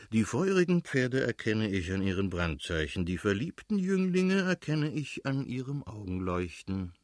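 mildly theatrical recitation, lifting in the second half; declaiming. A narrator's reading. Friend teases the lover with a verse, mildly declaiming. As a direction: recite it like verse, with a touch of pomp. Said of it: "deklamierte Stepan Arkadjitsch".

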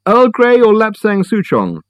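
Reg calling out. A narrator's reading. Old host calling tea choices from the kitchen, high and slow. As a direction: call from the kitchen as a genial old man.

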